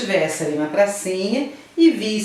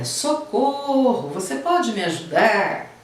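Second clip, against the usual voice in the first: high, slow, pleading cry; plea for help; 5 semitones higher, slower than usual. Shown as a demonstration. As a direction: call out for help, worried. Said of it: "dependendo da situação". (pedido de socorro, agudo e lento)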